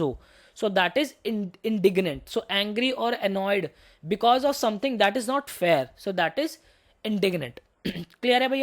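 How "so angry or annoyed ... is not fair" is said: very slow definition read aloud; slow dictation. Shown as a demonstration. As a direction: spell the meaning out slowly. Teacher reads English definition slowly.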